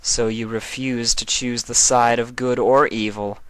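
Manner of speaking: Nightmare Moon. Acted. Nightmare Moon correcting Chrysalis, a regal, lecturing voice. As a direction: correct them with cool authority.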